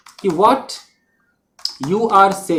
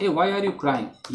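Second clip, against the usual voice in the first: slow correct version; 7 dB quieter, much slower than usual. Shown as a demonstration. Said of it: "यही correct है".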